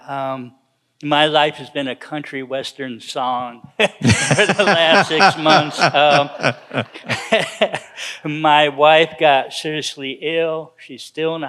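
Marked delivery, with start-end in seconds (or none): 1.0-5.8 chuckling while telling a rough year, louder at the end; laughing through words. Real, not acted. Laughing at his hard year. 5.8-8.2 a short laugh at his own bad luck; rueful laugh. Real, not acted.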